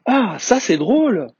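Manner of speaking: high, drawn-out exclamation of amusement; slow, delighted child's exclamation; amused child. A narrator's reading. Little prince finding the pilot's fall funny, amused.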